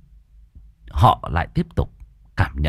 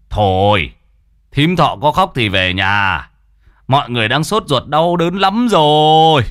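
a louder, irritated rebuke; snapping in anger; 5 semitones higher, 5 dB louder than usual. Acted. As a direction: cut her off sharply, losing his temper. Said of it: "lên tiếng như nổi nóng".

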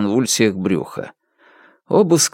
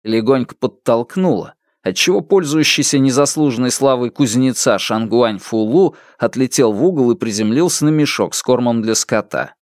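ordinary delivery, nothing marked

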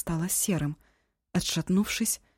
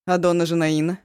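louder, urgent cutting-in; sudden interruption; 7 dB louder than usual. Acted. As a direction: jump in with sudden hope. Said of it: "вдруг перебила её Ашун".

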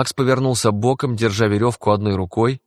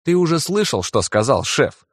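fake sigh; 6 semitones higher than usual. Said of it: "наигранно вздохнул Уилл".

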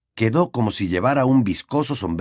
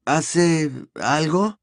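doubtful question; 6 semitones higher, much slower than usual. A narrator's reading. Harry asks about the plant.

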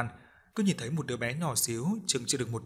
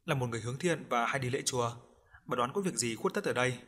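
plain reading voice

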